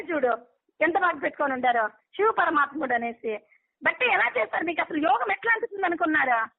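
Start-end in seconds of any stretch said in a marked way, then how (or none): 3.8-6.5 irritated, challenging questions; real angry scolding. Real, not acted. Scolding a rival about teaching yoga, angry. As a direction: take them to task, indignantly. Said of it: "మీకెందుకు అరుస్తున్నారు".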